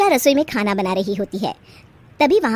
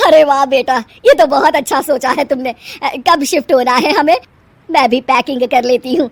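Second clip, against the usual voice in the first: delighted mother; 5 dB louder than usual. Acted.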